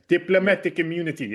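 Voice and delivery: a light South African accent on "Diplomatic immunity.". Shown as a demonstration. Quoting an evil movie villain to friends, light South African accent. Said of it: "I hear it in a South African accent".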